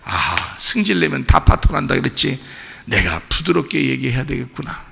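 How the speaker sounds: understated inner resolve, voice easing off; reflective self-talk. Acted. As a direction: talk yourself down from a temper. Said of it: "그때는 이제 목사님 생각해야지".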